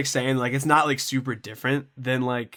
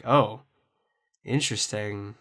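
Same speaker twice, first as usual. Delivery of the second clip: understated, hesitant reaction, trailing softer; puzzled reaction; 3 semitones lower, 5 dB quieter, slower than usual. Retold or imitated. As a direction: let it drop quietly, politely unconvinced. Retells puzzled reaction to playlist.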